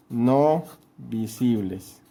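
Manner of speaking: slow correction with No stressed. Shown as a demonstration. Teacher correcting a slip for the class, stressing No. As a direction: stretch out "No visibles", leaning hard on "No". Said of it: "perdón, perdón".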